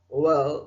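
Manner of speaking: well begun with rounded lips. Shown as a demonstration. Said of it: "व में round your lips". (well में होंठ गोल करके व)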